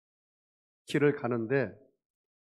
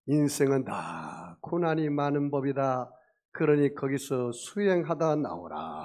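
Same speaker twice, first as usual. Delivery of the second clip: acted preachy sage; 4 dB louder than usual. Passerby to sinking man, drawn-out lofty lecturing. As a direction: imitate a sage lecturing, stretching the endings. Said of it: "그 사람이 뭐라고 한지 아십니까".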